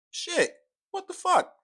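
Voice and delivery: shouted high and loud in disbelief; a real, sudden outraged shout; outraged yell. Real, not acted. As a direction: explode at the news. Outraged reaction to studio news.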